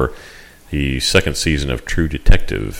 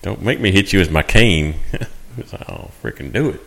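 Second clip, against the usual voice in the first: put-on grumpy old man; 3 dB quieter than usual. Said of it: "go all cantankerous on you".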